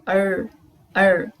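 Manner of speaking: R with the tongue curled back; R said round, not rough. Shown as a demonstration. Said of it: "ter um som mais redondo".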